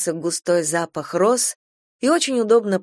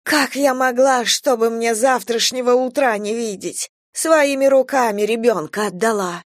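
despairing lament; 5 semitones higher than usual. Acted. Grandmother in despair.

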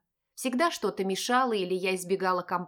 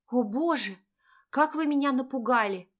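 startled and breathless; 4 semitones higher than usual. Acted. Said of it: "задыхаясь, проговорила я".

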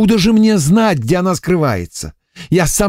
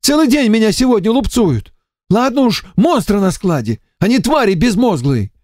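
higher, whining lament, nearly tearful; lamenting emissary; 11 semitones higher than usual. A narrator's reading. Эмиссар причитает перед Варварой, плаксиво. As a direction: complain of being beaten all day. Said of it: "Закончил причитать?".

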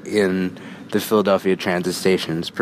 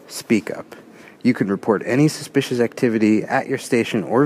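comforting announcement voice. Retold or imitated. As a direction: read it like a calm station PA. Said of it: "A very comforting voice comes on".

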